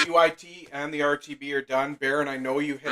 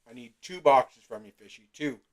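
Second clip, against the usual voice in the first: mouth full; 4 dB louder than usual. Real, not acted. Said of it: "talking with my mouth full here".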